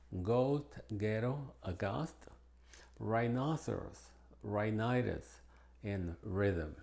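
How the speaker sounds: "ghetto, aghast, rhinoceros, rhinitis, rhythm" with no H after G or R; hard G in "ghetto, aghast", H unheard; plain R opening "rhinoceros, rhinitis, rhythm"; silent H. Shown as a demonstration. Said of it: "es muda generalmente después de la G".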